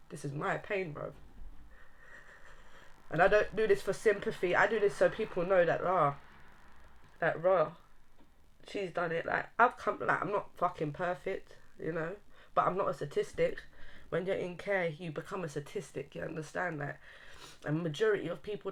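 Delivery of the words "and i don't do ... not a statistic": blubbering. Real, not acted. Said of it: "I'm sorry about the crying thing".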